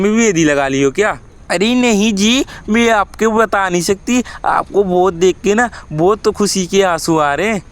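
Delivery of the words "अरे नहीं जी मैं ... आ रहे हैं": bride voice. Acted.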